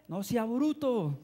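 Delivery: slow, drawn-out mock reproach; imitated scolding. Triplet correcting him about the stone, imitated scolding. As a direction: stretch it out like telling off a dunce.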